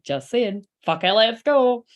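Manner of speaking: sassy, drawn-out send-off; sassy last word, ending loud and slow; Leo sass. Acted. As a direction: throw it out with a swaggering sass. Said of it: "a bit of Leo Sasson. ... being like".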